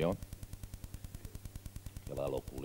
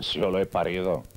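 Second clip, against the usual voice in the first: indignación; 6 dB louder than usual. Acted. Discusión de matrimonio.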